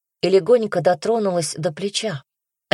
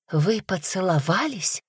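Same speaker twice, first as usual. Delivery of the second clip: squeaked; 3 semitones higher than usual. Acted. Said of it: "пропищала она".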